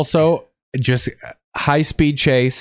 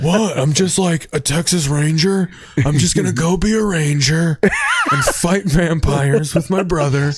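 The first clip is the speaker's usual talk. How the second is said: higher, drawn-out Texas twang; playful Texas accent, laughing a little; Jared Padalecki; 3 semitones higher than usual. Acted. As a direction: lay on a mock Texas ranger drawl. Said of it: "Jared Padalecki does talk like that".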